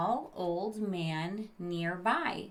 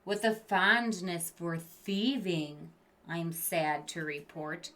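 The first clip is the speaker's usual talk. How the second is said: storybook creature voice; 11 dB louder than usual. A narrator's reading. Creature presenting the naughty students, loud and theatrical. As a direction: announce each name like a ringmaster. Creature reads the case file.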